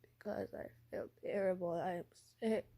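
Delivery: lightly voiced sick character; Robin. Sick character explaining missing school, mild poorly voice. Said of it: "Robin's like".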